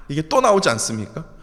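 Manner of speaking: ordinary talk, nothing marked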